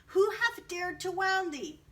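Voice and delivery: loud, high furious demand; the giant demanding who hurt the child, loud and angry. Acted. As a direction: roar out the outrage. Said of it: "his face grew red with anger".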